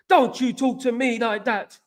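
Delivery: mock an offended fan's outburst; imitated ballistic rant. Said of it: "he went absolutely ballistic".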